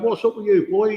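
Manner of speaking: mock drill sergeant telling off; sergeant's bark. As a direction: bark it at a slouching recruit. Retold sergeant scolding the sitter.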